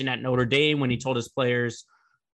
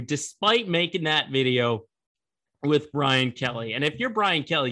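normal talking voice

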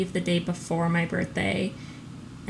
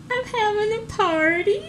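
surprised; 13 semitones higher, slower than usual. Retold or imitated. Retelling her surprise at the news.

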